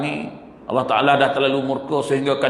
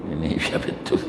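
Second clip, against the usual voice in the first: laughing disbelief; 10 semitones lower, 7 dB quieter than usual. Real, not acted. Laughing disbelief at new pattern.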